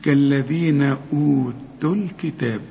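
كالذين أوتوا الكتاب slowly, the alif dropped in the join; slow linked recitation; connected recitation. Shown as a demonstration. Teacher recites the linked phrase to the student. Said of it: "ولذلك اسمعها".

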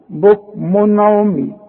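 slow بكم عمي with a short, clear "n"; careful model of بكم عمي, tanween plainly sounded; no ghunna. Shown as a demonstration. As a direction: say "bukmun 'umyun", no hum before the ayn. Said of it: "يبقى ما غنش".

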